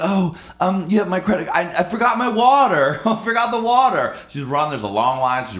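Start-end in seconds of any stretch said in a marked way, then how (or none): 0.0-4.2 high, flustered lady voice; flustered woman. Retold or imitated. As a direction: play her scatterbrained and pitched up. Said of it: "And she's like".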